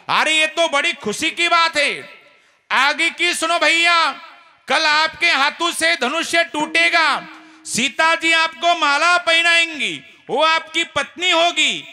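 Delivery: emotional pleading. Acted. Lakhan's emotional explanation.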